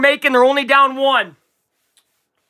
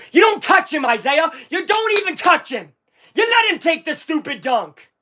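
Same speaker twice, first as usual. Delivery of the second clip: higher, insistent telling-off; exasperated scolding; 5 semitones higher than usual. Real, not acted. Fan streamer scolding his player over a foul, exasperated. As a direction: scold a player who cannot hear you.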